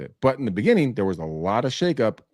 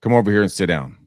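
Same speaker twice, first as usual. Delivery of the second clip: loud stern call to come sit; grandfather summoning; 6 dB louder than usual. Retold or imitated. Grandfather summoning Greg for a talk, loud and stern. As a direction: call the grandson over like a salty old man. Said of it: "And he says".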